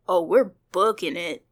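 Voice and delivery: loud quick aside breaking the reading; excited aside. Real, not acted. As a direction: burst out as if running for it. Reacts to fleeing the monster.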